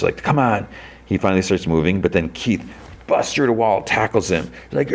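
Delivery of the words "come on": yelling. Retold or imitated. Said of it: "Hardcore yells at Chris".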